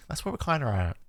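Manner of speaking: Aussie accent slipping. Real, not acted. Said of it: "The Aussie in me is just leaking out".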